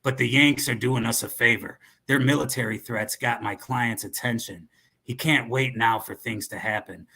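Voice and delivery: put-on cowboy accent. Dealer boasting of other buyers, cowboy accent. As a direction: arms dealer talking like a cowboy. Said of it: "the cowboy".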